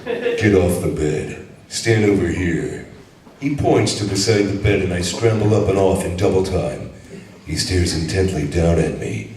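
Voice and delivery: lightly voiced cocky action hero reading a romance; Duke Nukem. Reading Fifty Shades aloud to a laughing crowd as a cocky hero. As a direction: read the steamy book as a swaggering hero, mildly done. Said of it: "Would you read that as the Duke for us?".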